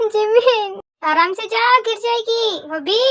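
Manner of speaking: high, stretched-out warning call; calling after someone. Acted. Warning a running girl she will fall, drawn-out call. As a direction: call it out slowly after a runner.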